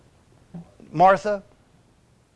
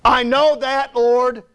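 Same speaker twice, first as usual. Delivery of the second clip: raised, insistent, impatient reply; a touch higher, frustrated protest; exasperated retort; 5 semitones higher, 4 dB louder, much slower than usual. Acted. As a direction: push back at being told what you know. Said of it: "You really think she said it like that?".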